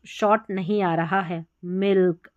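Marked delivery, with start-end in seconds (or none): 1.6-2.3 मिल्क with the i running into the l; मिल्क, vowel and l sounded as one; i joined to l. Shown as a demonstration. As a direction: let the vowel of मिल्क lean on the l. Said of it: "एल के साथ लग के आ रहा है".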